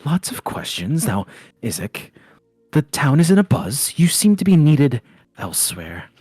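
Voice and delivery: calm him down while refusing to answer; placating barkeep Danica. Acted.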